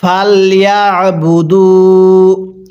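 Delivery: very slow, drawn-out melodic recitation; slow chanted tajweed reading; Quran recitation. Shown as a demonstration. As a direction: recite each syllable long and sung. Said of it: "কিভাবে পড়ব?".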